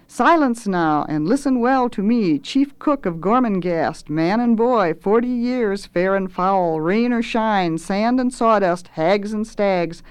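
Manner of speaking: grandiose cook rolling out a list; pompous self-introduction; boastful chef. Acted. Swelter's boastful speech.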